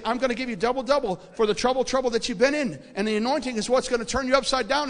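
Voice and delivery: God's promise proclaimed from the pulpit; proclaiming. Retold or imitated.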